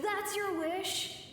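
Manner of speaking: laughing. Acted. Teasing friend's food wish.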